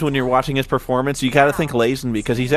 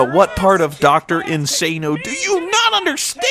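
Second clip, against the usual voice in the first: slow, higher, crying-out villain rant; Doctor Insano rant; 5 semitones higher than usual. Retold or imitated. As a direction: deliver it as an unhinged mad doctor.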